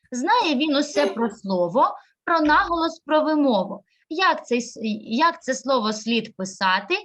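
lively rhythmic verse reading; poem read aloud to the class; reading a poem to children. Acted. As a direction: recite it for the children with a sing-song lilt.

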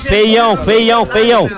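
drawn out, slow jeer; slow mocking taunt. Real, not acted. Taunting the rival fan, slow and mocking. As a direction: stretch every word to ridicule him.

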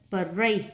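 slow "parade" stressed on "rade"; second-syllable stress. Shown as a demonstration. Teacher marking word stress, "parade" stressed on the second syllable. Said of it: "nhấn âm hai".

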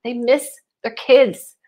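a sudden melting sigh of delight; imitating her own touched reaction. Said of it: "I'm like".

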